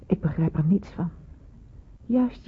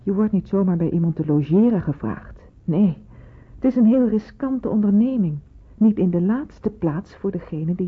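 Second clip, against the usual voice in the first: firm scolding, louder, rising on the risk; stern rebuke; 3 dB louder than usual. Acted. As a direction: cut her questions short, sharply. Nurse scolding girl's questions.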